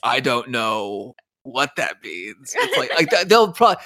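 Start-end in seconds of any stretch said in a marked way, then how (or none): 0.0-2.5 slow, lower, blank confused voice; puzzled viewer. Retold or imitated. A young viewer missing the Ghost joke, slow and lower. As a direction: play it dumb and lost.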